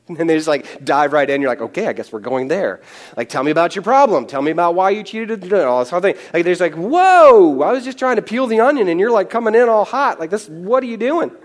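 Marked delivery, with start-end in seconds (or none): 1.6-11.3 startled whoa, rising higher and louder; taken aback. Pretend. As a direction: caught off guard by someone coming in hot. Imagined reply to blunt friend.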